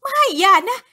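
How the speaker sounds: high, loud, drawn-out plea; wife begs the ghost to spare her husband, screaming; desperate cry for help. A narrator's reading. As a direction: scream for someone to save him. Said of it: "มารีร้องขอความช่วยเหลือ".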